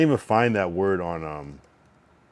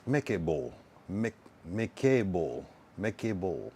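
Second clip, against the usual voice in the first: dragged vowel; 4 dB quieter, slower than usual. Shown as a demonstration. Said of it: "Drag the O".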